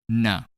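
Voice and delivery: "N" as an isolated voiced sound; exaggerated sound demo. Shown as a demonstration. Teacher isolating the sound "N" for better explanation, exaggerated. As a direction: sound out "N" on its own. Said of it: "pronounce this sound much louder than usual".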